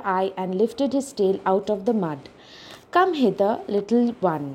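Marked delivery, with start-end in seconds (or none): 2.9-4.5 croaking crocodile. Acted. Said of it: "croaked the crocodile".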